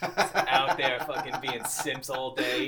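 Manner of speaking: slow words through laughter; laughing. Real, not acted. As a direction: say it while cracking up. Laughing while mocking aliens.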